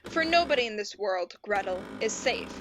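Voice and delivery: grave, dramatic fairy-tale narration; storybook narrator building dread; dark story narration. Acted. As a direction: spin it like an ominous bedtime tale.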